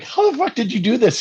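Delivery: mock-incredulous demand to a teammate. Retelling confronting drunk teammate Doty, high incredulous outburst. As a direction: pitch jumps way up in disbelief. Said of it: "and I'm like".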